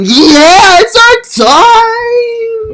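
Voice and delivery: high, strained victory cry; triumphant short men. Retold or imitated. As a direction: shriek it like a triumphant little guy. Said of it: "men just start going".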